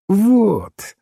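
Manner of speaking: high, ringing cry of agreement; ringing exclamation. A narrator's reading. Priest seizes on the key question, ringing exclamation. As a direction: call it out high and clear. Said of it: "звонко воскликнул священник".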